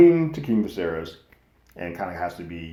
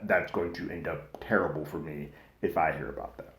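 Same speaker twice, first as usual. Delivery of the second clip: panicked aside; 2 semitones lower, 5 dB quieter than usual. Retold or imitated. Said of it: "Alicent's freaking out".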